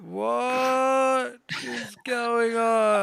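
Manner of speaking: very slow, high, dazed question; bewildered drawn-out cry. Acted. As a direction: stretch every word out high in confusion. Bewildered guitarist played in slow motion.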